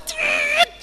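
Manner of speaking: very high squealing brake noise; screeching brakes. Retold or imitated. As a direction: imitate tyres screeching. Braking noise.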